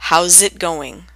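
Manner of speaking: How's it going blended into one word "howzitgoing"; How's it going without gaps, casual; run together as one word. Shown as a demonstration. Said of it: "Often can sound like one word".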